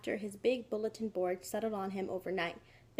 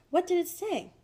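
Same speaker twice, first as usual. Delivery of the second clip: eager question; 9 semitones higher, 4 dB louder than usual. A narrator's reading. Mother eager about space message.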